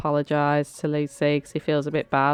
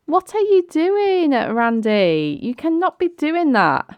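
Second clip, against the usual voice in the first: high, loud, slowed outrage; real exasperated protest; outraged telling-off; 11 semitones higher, 4 dB louder, slower than usual. Real, not acted. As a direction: scold him in disbelief. Scolding a game character.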